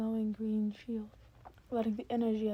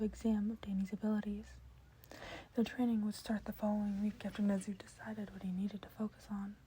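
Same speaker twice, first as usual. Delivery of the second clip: whispered narration. A narrator's reading. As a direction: read it all in a hushed whisper.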